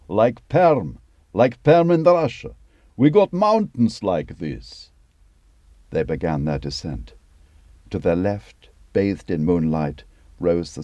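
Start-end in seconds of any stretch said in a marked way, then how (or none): 0.1-4.9 much higher and louder Russian shout; yelled. A narrator's reading. Dima turning round to shout at Luke in the jeep, loud. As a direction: call out over the engine noise.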